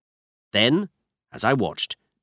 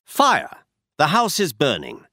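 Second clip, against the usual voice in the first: shouting fire; 2 semitones higher than usual. Shown as a demonstration. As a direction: call out the alarm, half-voiced.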